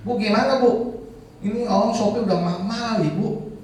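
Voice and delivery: high, pressing appeal; retold urgent pleading. Pressing the organiser while drivers rage, retold urgent plea.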